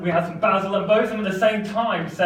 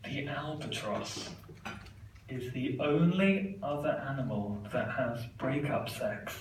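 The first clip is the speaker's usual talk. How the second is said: British; 5 dB quieter than usual. Retold or imitated. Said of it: "We're just gonna do it in British".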